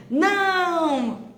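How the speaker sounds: sudden high loud no; a parent's startled shout of no; sharp parental no. Shown as a demonstration. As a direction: snap a no at the child. Parent yelling at child, demo.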